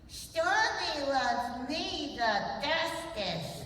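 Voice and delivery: put-on slow, smug childlike puppet voice; gloating little lamb puppet; Lamb Chop puppet voice.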